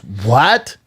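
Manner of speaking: restrained "What?" with rising tone; first disbelieving what. Retold or imitated. Girlfriend hearing the break-up, muted disbelieving what.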